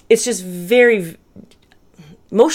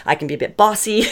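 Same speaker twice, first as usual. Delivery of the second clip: laughing through the words; laughing admission; 4 semitones higher, faster than usual. Real, not acted. Admitting bossiness to viewers, laughing. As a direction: own up with a laugh. Self-teasing confession.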